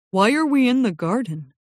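lightly voiced confused pony; puzzled pony. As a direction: wonder aloud as a bewildered pony. Pony Jasper asks puzzled.

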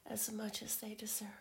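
intimate teasing whisper. Acted.

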